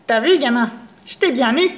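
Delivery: a hint of a sly crone gloating; lightly voiced witch's triumph. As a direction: crow over the catch. Witch gloats over caught boy.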